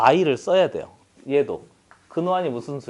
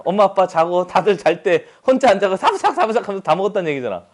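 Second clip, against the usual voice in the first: laughing; 6 semitones higher, 6 dB louder than usual. Real, not acted. Teacher jokingly pictures late snacking.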